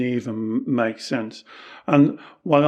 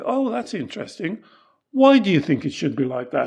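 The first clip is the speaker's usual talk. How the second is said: humble curiosity; 3 semitones higher than usual. Acted. Taoist master answering a disagreeing student, humbly curious. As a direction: ask humbly, with open interest. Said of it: "come at it from a humble point of view".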